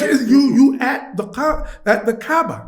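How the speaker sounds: loud, high, half-laughing disbelief; amazed realisation. Retold or imitated. Telling himself he is at the Kaaba, amazed realisation. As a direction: drag it out loud in mock astonishment.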